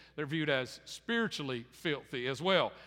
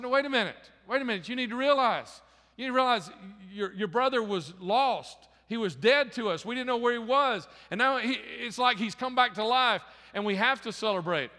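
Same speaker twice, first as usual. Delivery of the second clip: higher and louder, insistent plea; father urging his older son, insistent and raised; urgent pleading father; 5 semitones higher, 3 dB louder than usual. Acted. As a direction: urge him to see it, slowing on "your brother was lost".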